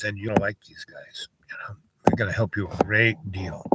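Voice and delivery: put-on hushed whisper to the kid; conspiratorial whisper. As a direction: lean in and whisper it. Whispered aside about the friends.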